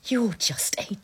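slow, breaking insult that bursts out on the last word; angry outburst. Acted. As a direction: spit out the insult after a halting start. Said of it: "lower your voice".

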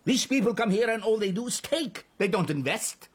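high-pitched incredulous outburst, then a tirade; outraged. Acted. Prime minister protesting foreign exploitation to envoy, outraged.

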